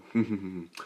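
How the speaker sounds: a short soft imitated giggle. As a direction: giggle quietly like Momo. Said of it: "Mama giggles, saying".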